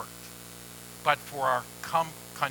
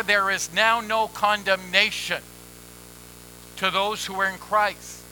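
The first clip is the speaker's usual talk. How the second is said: hurried past the key words; said too fast. Real, not acted. Preacher quoting scripture to the congregation, passing too quickly over "in Christ". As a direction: run through "in Christ" without stressing it. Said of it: "I said that too fast".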